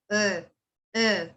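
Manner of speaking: uh uh with the tongue not rolled enough; underrolled R demo. Shown as a demonstration. Teacher demonstrates the wrong underrolled R, uh uh. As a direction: demonstrate the lazy R that comes out as uh. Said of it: "It kinda sounds like a E sound".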